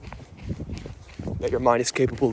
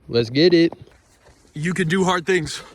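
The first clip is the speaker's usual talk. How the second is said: hyped while running; 4 semitones higher, 4 dB louder than usual. Real, not acted. Pumping himself up mid-run.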